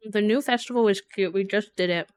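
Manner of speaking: talking through a bite of food; chewing while talking. Real, not acted. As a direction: mouth full. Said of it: "I'm chewing".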